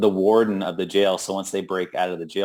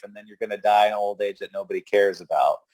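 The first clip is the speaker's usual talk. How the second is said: harsh reality check; 3 semitones higher, faster than usual. Retold or imitated. Convict scolds his partner, a hint of contempt. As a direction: belittle him, rattling it off. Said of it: "gives him a reality check".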